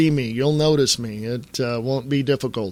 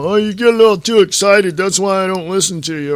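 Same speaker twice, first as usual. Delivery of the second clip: loud, higher whiny jab at him; mocking critic; 4 semitones higher, 5 dB louder than usual. Host mimicking listeners who think he gets too excited, loud mock whine. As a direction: throw the critics' complaint back, hammed-up. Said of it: "people get all pissed off at me".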